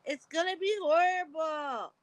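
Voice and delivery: a half-laughing loud wail about the bruise; playful loud lament over the swelling; mock dread. Real, not acted. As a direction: call it out in playful despair.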